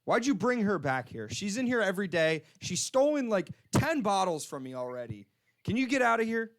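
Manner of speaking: mildly acted exasperation; mad store clerk. Store clerk throwing out a thief's companion, mildly angry. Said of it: "he's so mad".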